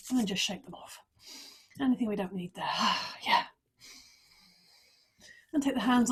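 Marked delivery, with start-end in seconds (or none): 2.7-3.2 short open sigh, demonstrating release; letting-go sigh. Shown as a demonstration. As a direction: sigh it away as you shake off. Teacher demonstrates shaking off and letting go.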